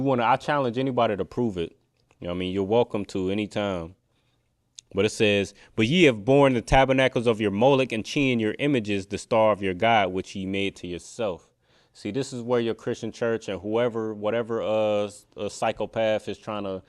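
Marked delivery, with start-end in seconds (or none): 5.7-11.5 scripture reading. Acted. Preacher returns to the verse, scripture reading. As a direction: read the verse out firmly.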